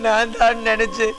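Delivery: crying. Acted. Grieving man tells his boss of his brother's killing, crying. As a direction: wail it out through sobs. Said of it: "அழுகாதடா".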